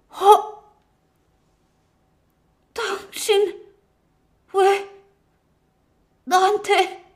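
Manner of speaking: high, halting, wounded woman's voice; pained murmur. A narrator's reading. Stabbed wife questions husband, pained high halting voice. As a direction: force out each word through pain. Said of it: "고통에 찬 목소리로 읊조렸다".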